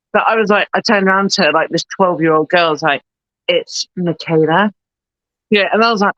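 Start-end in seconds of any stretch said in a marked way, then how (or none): 3.5-4.7 slow, sarcastic intro with a rising end; sarcastic line delivery. Retold or imitated. Actor introducing herself to a twelve-year-old girl, sarcastically. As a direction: draw the introduction out, lightly sarcastic. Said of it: "so used to being sarcastic in my sketches".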